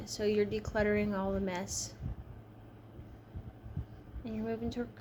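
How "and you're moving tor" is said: talking through a yawn; words stretched by a yawn. Real, not acted. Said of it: "I'm sorry for yawning".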